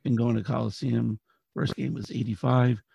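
raspy, worn-out voice; hoarse from cheering all night; hoarse cry. Real, not acted. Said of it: "As you can tell, I lost my voice a little bit".

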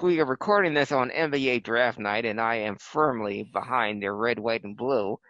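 formal, measured broadcast intro; show host intro. Acted. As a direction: set the scene like a retro TV host.

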